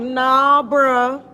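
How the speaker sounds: dismissive. Retold or imitated. Telling her uncle Diet Coke is still sugar, dismissive. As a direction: shut him down, not having it. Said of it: "I'm like".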